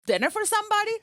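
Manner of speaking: hammed-up jealous wife; jealous accusation. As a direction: grill him over who he's with. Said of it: "I think you used the term".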